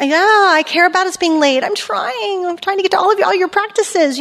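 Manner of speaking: busy mom's high exasperated reply. Retold or imitated. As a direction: sound like a frazzled mother running late. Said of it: "reminds me of, like, my teenagers".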